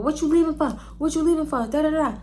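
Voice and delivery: imitated nagging date. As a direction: mimic his repetitive pleading. Imitating date questioning her leaving.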